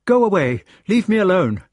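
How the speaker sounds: loud, high-pitched upset; angry rejection. A narrator's reading. Guinevere telling Lancelot to leave her, angry and high. She pushes him away.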